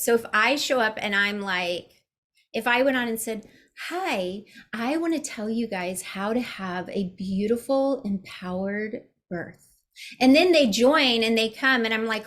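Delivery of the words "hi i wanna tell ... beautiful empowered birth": a hint of a soft, polished presenter voice, trailing quieter; fake filming voice. Mocking her old IGTV videos, in a lightly put-on filming voice. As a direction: put on a sweet, rehearsed camera voice. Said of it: "my I G T V voice".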